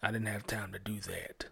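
imitating a lame excuse, dropping to a whisper; mock excuse. Mocking a listener who skips reading the word, muttered. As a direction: mumble the excuse like someone caught out. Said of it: "if you ever hear somebody say".

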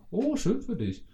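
very high, slow sing-song "Oh, schön für dich"; played-up fake joy. Showing the played-up reply, high and slow. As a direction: stretch it high and syrupy, clearly fake. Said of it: "dieses gespielte".

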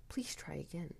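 soft, eerie whisper. A narrator's reading. Voices in the dark taunting the waking narrator, whispered. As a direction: whisper it as a creepy polite prompt. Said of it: "someone whispered".

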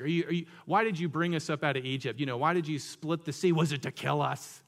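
mock-exasperated sarcastic questioning. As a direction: throw it out as a scornful accusation. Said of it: "They're being sarcastic".

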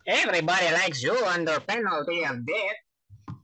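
high, swooping cartoon voice; sing-song cartoon impression, leaping high; Mister Lunt. Shown as a demonstration. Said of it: "go for Mister Lunt".

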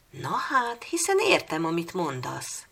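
put-on girl realising she understands the pup, shouting happily; happy shout. A narrator's reading. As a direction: cry out in delighted surprise. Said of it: "kiáltotta boldogan".

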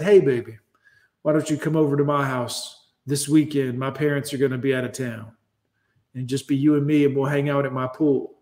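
lightly put-on low teen jock voice; teenage boy come-on. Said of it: "He talked like that".

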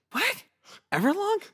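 high, incredulous squeal of disbelief; Maniscalco-style outrage. Retold or imitated. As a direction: play the comedian losing it over a missing song. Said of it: "You went all Maniscalco on him".

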